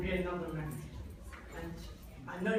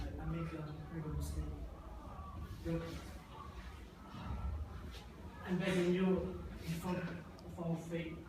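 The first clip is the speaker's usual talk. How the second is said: begging; 7 dB quieter than usual. Acted. Father begs forgiveness.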